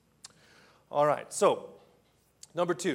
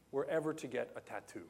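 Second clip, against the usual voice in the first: hushed musing; 4 semitones lower, 6 dB quieter, faster than usual. Retold or imitated. Inner musing, hushed self-talk.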